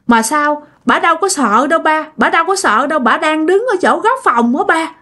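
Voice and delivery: mild imitation of a little boy protesting in fear; frightened child. Scared son points out the ghost to his father, lightly voiced fear. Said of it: "mà cái mặt nó sợ lắm".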